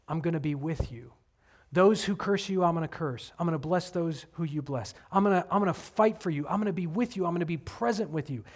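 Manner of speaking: softly spoken promise; gentle reassurance. Acted. God promising presence to his people, gentle reassurance. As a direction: reassure quietly and earnestly.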